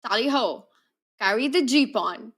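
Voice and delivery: attempted English accent that stays Indian; Indian-accented stab at an English accent; failed English accent, Indian. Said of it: "sounded more like my Indian accent".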